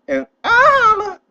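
sudden high laughing cry; laughing outburst. Real, not acted. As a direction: burst out laughing at the end. Ends video laughing.

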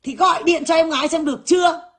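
mocking her demand. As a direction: throw her bossy demand back in a shout. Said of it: "nó kêu là". (giọng nhại quát to, cao)

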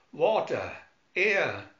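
breathless gasping words; panting. Acted. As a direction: gasp for air. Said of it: "panted Doctor Smith".

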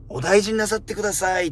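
a hint of a polite clinic clerk; polite receptionist. Repeating the receptionist's respectful farewell, lightly polite. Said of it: "ちょっとの敬語感".

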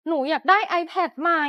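slow, drawn-out pleading for an iPad; whiny begging. Acted. Spoiled daughter begs her mother for a new iPad, whining slowly. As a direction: stretch it out like a spoiled child.

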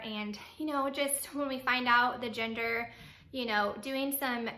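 running out of air; talking without taking a breath. Real, not acted. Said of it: "sorry, I need to breathe".

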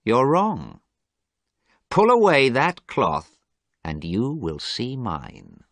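hard and cruel. Acted. Dorian ordering Basil to unveil the portrait, hard and cruel. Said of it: "Dorian's voice was hard and cruel".

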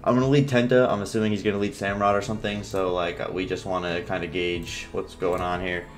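talking through swollen lips; sore, swollen mouth speech. Real, not acted. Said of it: "You can probably hear it in my speech".

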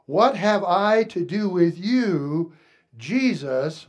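slow, emphatic quoted cry; mild mock outcry. Preacher quoting the possessed man to Jesus, mildly crying out. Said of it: "he cried out with a loud voice".

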